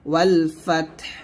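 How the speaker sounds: ওয়াল ফাতহ slowly, ending on a silent, closed হ; stopping on ওয়াল ফাতহ. Shown as a demonstration. Teacher showing how to stop on ওয়াল ফাতহ, slowly. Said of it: "তাহলে এখানে বলতে হবে".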